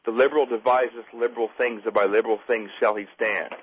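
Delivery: slow, measured Bible reading; scripture reading. Acted. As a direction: read it out as solemn verse, falling at the ends.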